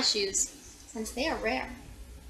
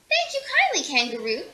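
delighted thanks; 2 semitones higher than usual. Acted. Grateful thanks to kangaroo.

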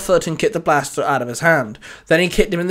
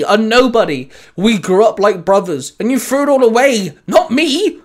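raised, impassioned retort, climbing higher; growled retort; 4 semitones higher, 5 dB louder than usual. Acted. Winston confronts the friend he grew up with, growled retort. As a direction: build in hurt anger, pitch rising to the end. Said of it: "Winston growled".

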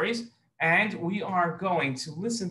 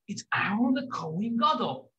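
whispered announcement at the door; 6 semitones higher than usual. Acted. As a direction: whisper the name through the door. Answering at the door.

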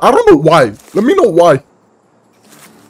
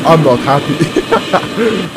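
slow mock-sulky drawl; grumpy; much slower than usual. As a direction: drag it out sulking. Grumpy repeat, then laughing.

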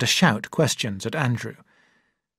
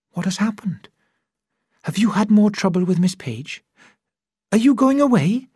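higher, anxious woman's questions; a hint of a fretting sweetheart; lightly voiced worried young woman; 8 semitones higher than usual. Young woman afraid her man is leaving, worried questions.

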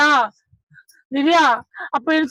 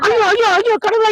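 anguished wail; 5 semitones higher than usual. Acted. Husband hearing of wife's affair, anguished wail. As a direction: wail it out in despair.

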